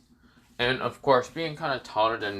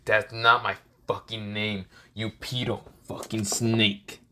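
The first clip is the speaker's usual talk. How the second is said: slow, acted angry retort; restrained anger; 3 semitones lower, slower than usual. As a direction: spit the insult slowly, anger held in. Acted insult from angry Naruto.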